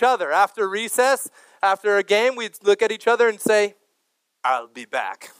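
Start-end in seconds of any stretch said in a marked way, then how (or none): 4.4-5.3 low German-accented movie-cyborg impression; Terminator. Schoolkids quoting the line to each other after recess, Terminator impression. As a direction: drop the pitch into a mock action-hero voice. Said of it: "we all were quoting this line".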